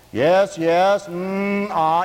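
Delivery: mock counselor humming along; a lightly voiced yes-yes counselor; counselor murmuring. Preacher mimicking the counselor's empty murmurs. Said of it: "I heard the guy saying".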